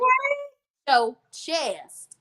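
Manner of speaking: high, loud cheer with drawn-out words; playful hype. Acted. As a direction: belt it out high, egging someone on. Playful exhortation to speak boldly.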